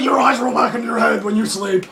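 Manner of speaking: retold line said through a laugh; laughing quote of a co-star; laughing while quoting. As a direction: quote him while cracking up. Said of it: "busted out laughing".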